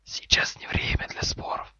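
composed whispered interjection; calm hiss. Acted. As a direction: whisper it evenly to end the quarrel. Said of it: "спокойно заметил Гарри".

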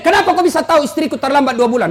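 rapid accusing question; mock angry demand. Husband confronting electricity man over secret, mock angry. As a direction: hurl it quickly as an irate husband. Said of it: "suaminya marah-marah sama P L N".

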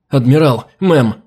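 calling out. Acted. General calls the admiral.

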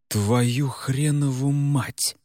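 drawn-out shocked swearing; slow stunned curse. Acted. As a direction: let the curse sink in slowly. Реджес понимает ужасное.

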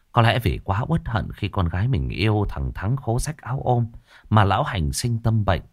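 ordinary delivery, nothing marked

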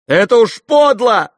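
high, loud cry of shame; tearful shout. A narrator's reading. Kolya crying out at the shameful scene, tearful. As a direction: shout it close to tears. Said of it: "крикнул Коля, совсем плача".

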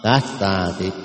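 "Cát" closed by a consonant before "ra thì"; corrected pronunciation. Shown as a demonstration. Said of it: "không phải ca, à, cát".

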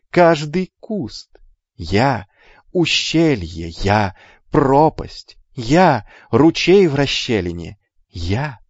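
slow, spaced-out incantation; solemn godlike recital. A narrator's reading. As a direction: let each thing stand alone, slowly. Hermes solemnly voices the god.

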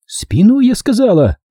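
high-pitched shouted order; крик. A narrator's reading. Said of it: "крикнула я". (крикнуть приказ высоким голосом)

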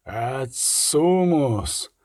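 slow, soft cry from far off; a war call carried through fog from afar; distant cry. A narrator's reading. Pursuers call out from a distant ridge, a drawn-out far cry. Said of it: "долинув далекий крик".

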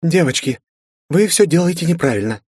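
put-on a bright elf girl correcting others; young elf girl. A narrator's reading.

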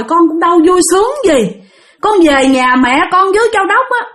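high-pitched plaintive lament; pleading. Retold or imitated. Spirit telling the master how everyone turned her away, pleading. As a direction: imitate a pitiful plea. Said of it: "Bắt đầu van xin".

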